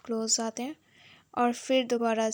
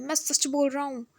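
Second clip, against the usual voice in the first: mild mock yell, begging them to listen; retold shout; 4 semitones higher than usual. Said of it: "हैंग चिल्ला के बोलता है". (चिल्लाकर गिड़गिड़ाना, हल्का सा)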